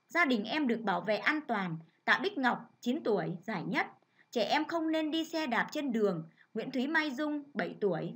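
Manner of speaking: bright, clear reading of a good-news report; steady announcer-style news read. Acted. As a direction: read it out like a cheerful bulletin.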